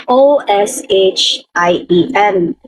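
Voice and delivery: slow letter-by-letter spelling. Shown as a demonstration. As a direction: spell each letter slowly. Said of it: "ganito yung spelling niya". (dahan-dahang pagbaybay)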